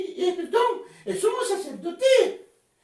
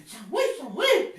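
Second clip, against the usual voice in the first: a hint of a trumpet call, lower; 6 semitones lower than usual. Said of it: "le dijo con voz de trompeta".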